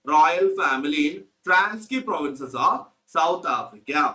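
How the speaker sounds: reads each word very slowly for notes; slow dictation. Shown as a demonstration. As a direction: spell it out slowly so they can write. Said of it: "dictating text to class". (വളരെ പതുക്കെ പറഞ്ഞു കൊടുക്കുന്നു)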